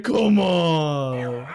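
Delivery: mock metal bassist yelling; annoyed shout. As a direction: bark it out in disgust. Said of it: "And then he's like".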